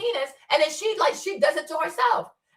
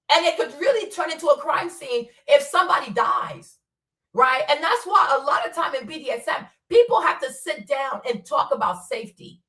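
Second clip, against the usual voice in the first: ordinary talk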